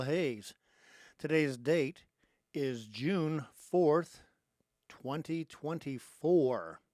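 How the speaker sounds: loud, drawn-out radio greeting; show-opening announcement. Real, not acted. Host greets America and listeners around the world, show-opening announcement. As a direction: project a big, measured show intro.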